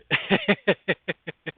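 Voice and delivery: breathy high-pitched laugh. Real, not acted. Streamer laughing gleefully at his own hype, high laugh. Laughing after let's get busy baby.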